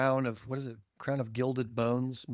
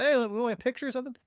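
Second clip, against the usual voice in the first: imitating fan; 10 semitones higher, faster than usual. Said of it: "they'll be like".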